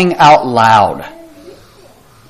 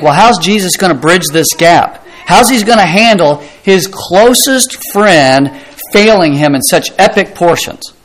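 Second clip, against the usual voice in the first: voiced puzzlement, pitch climbing higher; imagined incredulous questioning; 5 semitones higher than usual. Preacher voicing the congregation's doubt about Peter's failure, puzzled. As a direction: wonder it aloud as a baffled listener, rising in pitch. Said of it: "And you think".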